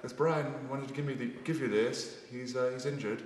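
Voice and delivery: a hint of an imitated Irish voice; Paul O'Connell. Rugby player passing on an injured teammate's gift, lightly imitated Irish accent. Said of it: "That's exactly how he talks".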